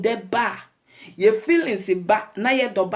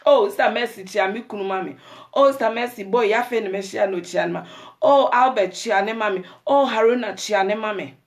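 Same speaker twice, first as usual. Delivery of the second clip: excited introductions. Retold or imitated. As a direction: introduce everyone eagerly. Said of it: "we just introduce".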